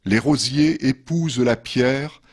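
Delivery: measured poetry reading with pauses between verses; poem reading. Acted. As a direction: read each verse line apart, letting it settle. Reads second poem after musical break. (lecture de poème posée)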